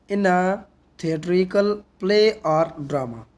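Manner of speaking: slow, measured reading with pauses between phrases; definition read-aloud. Real, not acted. Reads the English definition aloud. (ठहर-ठहर कर परिभाषा पढ़ते हुए)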